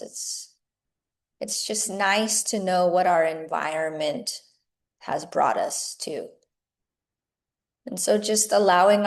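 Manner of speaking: measured meditation guiding with long pauses; guided meditation. Acted. Teacher guiding yoga teachers into meditation, unhurried meditative delivery. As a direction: lead them gently inward, phrase by phrase, leaving space between thoughts.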